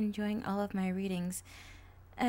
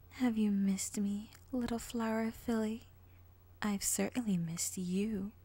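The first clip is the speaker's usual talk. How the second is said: creepy villain voice. Acted. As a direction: purr the greeting like a lurking villain. Villain taunts her.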